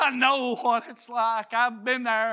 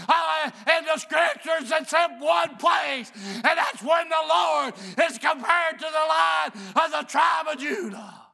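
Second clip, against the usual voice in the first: full-force preaching. Acted. Preacher rousing his church about the lion's den, full force. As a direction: preach it hard to the congregation.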